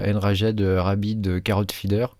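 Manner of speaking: English name in a thick French accent. Real, not acted. Presenter naming an add-on project to viewers, French-accented English. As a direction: say the English words with French sounds. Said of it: "avec mon super accent anglais".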